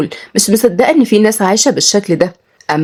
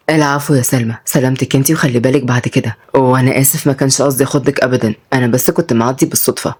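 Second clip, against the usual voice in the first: gentle apology; 5 semitones lower than usual. Acted.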